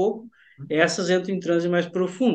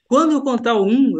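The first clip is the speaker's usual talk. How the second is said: hypnotic count; 4 semitones higher, 6 dB louder than usual. Shown as a demonstration. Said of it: "mudando a minha entonação".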